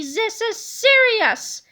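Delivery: slow, high, loud furious yell; angry yell. Acted. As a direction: spit it out in fury. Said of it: "yelled Big Tippy".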